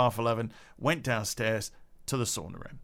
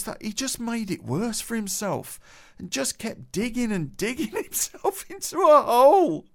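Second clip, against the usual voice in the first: laughing through it; 10 semitones higher than usual. Real, not acted. Teller breaking into laughter.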